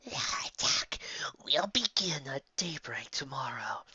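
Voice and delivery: hushed, slow commander giving orders; a lightly voiced leader issuing battle orders; hushed commander's orders. A narrator's reading.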